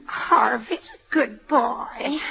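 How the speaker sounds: put-on slow, weepy old woman's plea; tearful plea. Old mother pleading for her son, slow and tearful. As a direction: whimper it out, slowly, close to tears.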